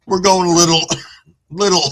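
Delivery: coughing through the words; raspy voice between coughs; smoker's rasp. Real, not acted. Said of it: "sitting here coughing".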